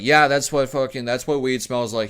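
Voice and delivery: a hint of a knowing dad; lightly voiced dad who knows the smell. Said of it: "he was like".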